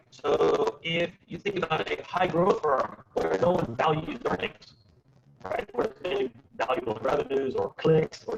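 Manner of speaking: choppy robotic video call; robotic audio. Real, not acted. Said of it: "sort of robotic".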